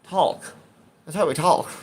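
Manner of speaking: "talk" in a Chicago accent, vowel drawn toward "tawk". Shown as a demonstration. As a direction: say "Talk" as "tawlk", Chicago style. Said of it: "we're in Chicago".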